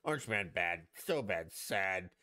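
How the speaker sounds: hammed-up whiny rant; mock Trump rant. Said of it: "he'd be like".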